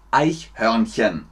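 slow, careful "Eichhörnchen", syllable by syllable; slow demonstration. Shown as a demonstration. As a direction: take "Eichhörnchen" apart for learners. Schweres Wort langsam vorgesprochen. (langsam und deutlich vorgesprochen)

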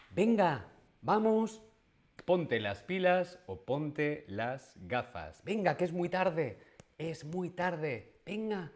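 nagging mother. Retold or imitated. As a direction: hurry the kid up like a mom. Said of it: "Qué nos dice nuestra madre". (madre apurando)

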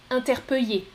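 interpeller as "in-ter-peu-yé"; Y glide for the LL in interpeller; third variant. Shown as a demonstration. Teacher repeats choice three, interpeller with Y. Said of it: "Je répète, écoutez bien".

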